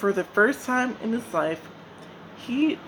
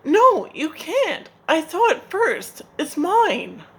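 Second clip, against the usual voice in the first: much higher, loud greedy screech; shrieking; 9 semitones higher, 4 dB louder than usual. Acted. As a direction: screech to grab the figs. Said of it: "he shrieked".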